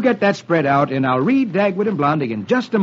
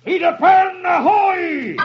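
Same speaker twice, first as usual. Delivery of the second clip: lookout's shout; 12 semitones higher, slower than usual. Acted. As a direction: call it down from the mast. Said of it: "the lookout shouts".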